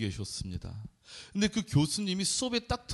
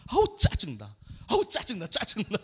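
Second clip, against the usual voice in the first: annoyed groan; 4 semitones higher than usual. Retold or imitated. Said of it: "진짜 오랜만에 짜증이 났어요".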